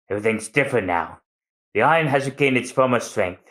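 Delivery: dying master comforting his apprentices; calm farewell. Acted. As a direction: say goodbye at peace. Tom's farewell.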